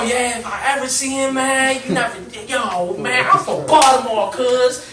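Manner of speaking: a touch of imitated tough talk; tough-guy bravado. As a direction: talk big like you're from Baltimore. Friend repeating his threat.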